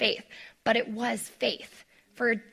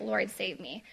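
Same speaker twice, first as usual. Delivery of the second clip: quiet plea; 2 semitones lower, 7 dB quieter than usual. Retold or imitated. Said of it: "he cried out".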